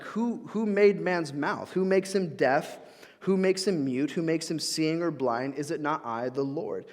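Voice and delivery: slow, pointed rhetorical questions; sarcastic. Retold or imitated. God answering Moses's excuse, slowly and pointedly sarcastic. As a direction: lean on each who with gentle sarcasm. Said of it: "like, sarcastic".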